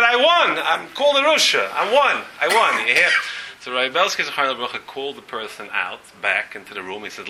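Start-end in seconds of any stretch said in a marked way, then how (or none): 0.0-2.9 retold excited cry. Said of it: "he's screaming".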